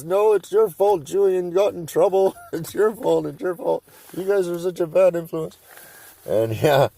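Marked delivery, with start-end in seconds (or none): 0.0-5.6 higher, scolding mom voice; blaming mom. Retold or imitated. Buddy's mom blaming the boys for the arrest, mock scolding. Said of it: "she kept blaming us".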